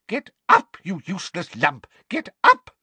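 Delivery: put-on high, loud shrieking old woman; yelling. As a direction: scream the order while tugging. Mrs Figg tugging Dudley, yelling.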